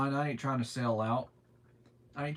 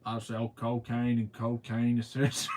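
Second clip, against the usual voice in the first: joking hushed confession; mock secret whisper. Parody whisper of the propane line.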